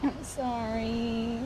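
very slow, drawn-out whimper; meek, mock-crying plea; tearful apology. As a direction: drag out a pitiful role-played apology. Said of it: "Stop crying".

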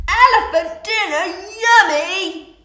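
high, very loud, gleeful exclamation; greedy crocodile, excited. Acted. Crocodile spotting an elephant to eat, excited shout.

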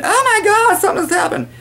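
high, shrieking mock panic; hysterical panic. Mocking hysterical people, high-pitched mock panic. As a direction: ham up a hysterical person losing it. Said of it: "fits of hysteria".

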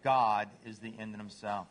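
low, lightly voiced devotion; humble dog. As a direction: bring it down low and simple. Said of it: "What's a dog say?".

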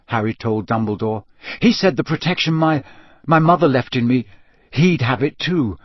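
a hint of an earnest boy recounting his ordeal; lightly acted, insistent young witness; lightly voiced Harry. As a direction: report it urgently, in halting phrases. Voices Harry in story narration.

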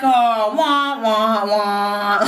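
drawn-out fake wailing; hammed-up boo-hoo; mock whining. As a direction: imitate a sulky cry, stretching each sound. Mimics spoiled-moment whining.

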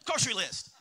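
loud incredulous question; baffled outburst. Acted. Facebook user told they would see a list, baffled. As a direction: blurt it in mock disbelief.

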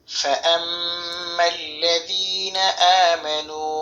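slow, drawn-out chanted recitation; slow Quranic chant. Acted. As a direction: recite it slowly with melodic tajweed. Recites verse fragment.

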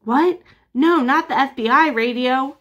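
high, alarmed surprise; startled and worried. Acted. Alarmed reaction.

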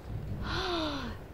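soft, high storybook gasp; awed gasp. Acted. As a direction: gasp softly at an amazing sight. Arriving at the space station.

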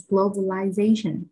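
globalization with ZA stressed; globalization, main beat just before the ending; stress on fourth syllable. Shown as a demonstration. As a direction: lean on the ZA in globalization. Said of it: "trọng âm sẽ rơi vào âm thứ tư".

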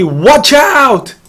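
high-pitched acted warning cry; imitating a climber's alarmed yell; mock warning shout. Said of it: "이렇게 소리를 지르죠".

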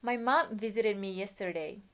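slow, clear model reading for the class; slow model sentence. Shown as a demonstration. Teacher modelling a sentence for students, slowly. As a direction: read it slowly, word by word. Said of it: "frase macne".

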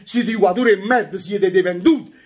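angry rant. Real, not acted. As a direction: vent the fury after the draw. Tifoso sfoga rabbia dopo il pareggio. (sfogo arrabbiato e a voce alta)

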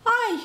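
high-pitched yelp; startled "ai" cry. A narrator's reading. Pale man on the ladder, high startled cry. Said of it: "закричал человек с белым лицом".

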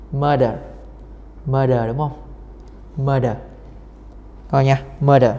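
"Murder" with a clear d in the middle; d-sound demonstration. Shown as a demonstration. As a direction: show the d sound inside "Murder". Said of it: "âm đờ nè".

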